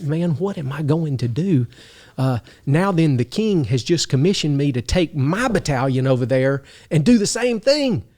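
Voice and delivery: mock panic rising up the pitch; freaking out. Captain retelling his dread of the king's order, mock-panicked. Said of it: "freaking out".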